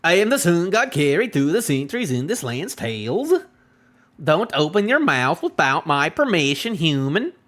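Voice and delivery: lilting, badly guessed Viking accent; rough Viking accent. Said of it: "I don't really know the Viking accent".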